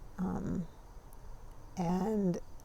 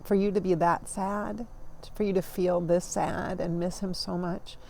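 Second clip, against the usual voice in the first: tender reassurance; 4 dB quieter than usual. Retold or imitated. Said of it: "I said".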